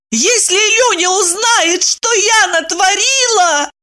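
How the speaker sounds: slow, high sobbing words; breaking into tears. A narrator's reading. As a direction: voice cracking into crying. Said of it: "уже не смогла".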